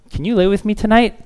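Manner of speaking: put-on high, whiny little kid asking; a hint of a clingy kid; pleading child. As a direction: beg like a small child at bedtime. Child begging parent, acted dialogue.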